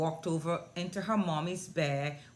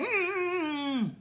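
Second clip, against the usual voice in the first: put-on high, drawn-out "mm" of a pouting child; pouty whine; 12 semitones higher than usual. Imitating the three-year-old who won't talk, pouty high whine. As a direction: imitate a sulky little whine.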